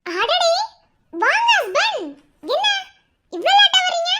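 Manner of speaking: high, loud, sugary sarcastic greeting; the wife taunts her angry husband with syrupy welcome; mock sweet welcome. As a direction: greet him with fake sweetness to needle him.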